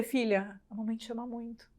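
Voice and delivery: soft, hushed and tender. Retold or imitated. Mother quietly telling her daughter, tender and soft. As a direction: speak gently, as if she is right there. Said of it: "eu vou até me emocionar".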